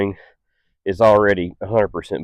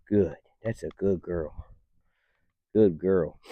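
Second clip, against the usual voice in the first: soft praise; 2 semitones lower, 9 dB quieter, slower than usual. Real, not acted. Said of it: "I'll praise in a higher voice".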